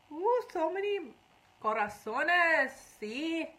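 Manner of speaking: high squeal of "Ooh" at the hearts; delighted. Real, not acted. To viewers flooding hearts, a high delighted ooh. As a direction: gush over the flood of hearts.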